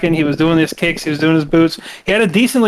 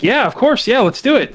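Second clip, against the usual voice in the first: higher, mildly eager yes; Austin Theory eager; 8 semitones higher than usual. Retold or imitated. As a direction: jump at the offer, pitched up. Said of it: "Austin Theory is like".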